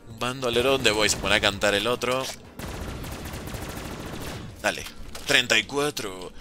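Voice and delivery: usual speaking voice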